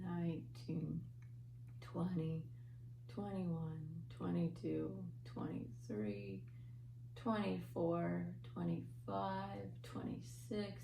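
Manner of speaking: soft, drowsy counting; sleepy voice. Shown as a demonstration. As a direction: count slowly like you're falling asleep. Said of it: "in our sleepy voice".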